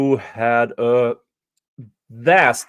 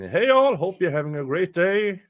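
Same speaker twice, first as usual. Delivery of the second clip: cheery chat voice; 6 semitones higher than usual. Retold or imitated. Reading a viewer's chat message.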